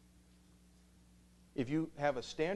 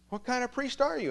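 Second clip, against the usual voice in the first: mock incredulity; 13 semitones higher, 6 dB louder than usual. Students' incredulous retort.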